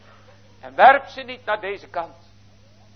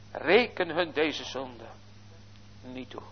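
soft prayer; 4 semitones lower, 10 dB quieter than usual. Acted. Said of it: "prevelde niet zachtjes".

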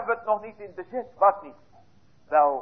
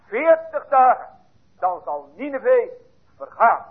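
raw blunt message; 4 semitones higher than usual. Shown as a demonstration. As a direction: deliver it as a raw, uncultivated warning. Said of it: "Net dit rauwe woord".

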